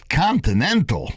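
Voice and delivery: put-on high, scornful Italian Jewish accent. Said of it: "He said it with an Italian Jewish accent".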